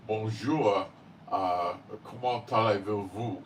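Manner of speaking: nasal Parisian French with a lifted Bonjour. Shown as a demonstration. Speaker showing how the French in France say it, in Paris French accent. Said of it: "they would have all the nasal inflection".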